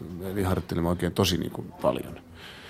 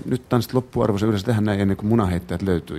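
retold stage announcement. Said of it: "ilmoitin näin".

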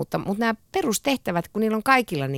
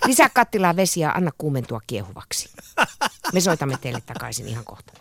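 mild dispatcher voice, halting over the recipe; emergency dispatcher. Pretend. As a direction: read it as if calming a caller on the emergency line. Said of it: "ihan kuin olisit hätäkeskuksessa töissä".

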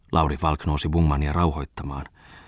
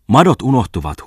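loud, higher call; 6 semitones higher, 7 dB louder than usual. A narrator's reading. Tommola calls after the boat about the worms, loud shout. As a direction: shout the warning to the departing boat. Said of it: "huusi oiva Tommola".

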